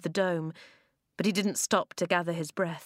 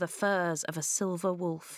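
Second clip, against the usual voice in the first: plain reading voice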